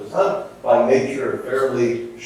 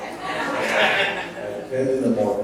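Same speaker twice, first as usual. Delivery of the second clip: laughing; much slower than usual. Real, not acted. Adds detail while laughing.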